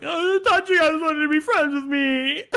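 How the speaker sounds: hurt Perturabo. Retold or imitated. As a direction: play a wounded little brother, squeaky and loud. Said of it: "he's like".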